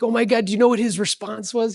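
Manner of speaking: high-pitched playful retelling. Retold or imitated. Telling the audience about sharing news with his coach, playful. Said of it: "I said very playfully".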